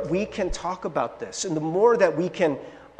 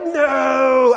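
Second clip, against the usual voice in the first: sudden loud, high "No!"; a sharp preacher's shout; 6 semitones higher, 6 dB louder than usual. Acted. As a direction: blurt it out as a loud denial. Emphatic rhetorical no.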